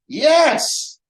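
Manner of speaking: loud, high-pitched mock elation; eager yes. Love seeker confirming the nice body, loud excited cry. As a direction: burst out with a thrilled yes.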